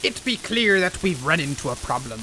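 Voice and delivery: gruff pirate talk, dropping into it. Pretend. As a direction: growl it like a sea captain. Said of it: "I don't know why I'm talking like a pirate now".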